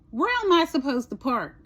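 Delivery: mildly exasperated question; frustrated attitude. Retold or imitated. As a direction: ask it with some annoyed attitude. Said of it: "that was the wrong attitude to have".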